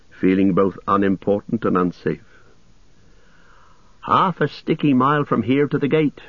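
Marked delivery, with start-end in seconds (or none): 4.0-6.2 high-pitched hobbit grumble, lightly acted; Pippin's grumble. A narrator's reading. Hobbit complaining at the foot of the tower, higher-pitched grumble. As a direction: grumble in a higher voice, without real muttering. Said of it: "muttered Pippin".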